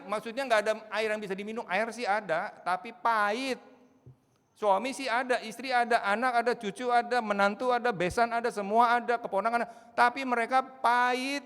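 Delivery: loud, high, urgent preaching; preaching at full force. Acted. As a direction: drive the warning home from the pulpit. Preacher raises voice.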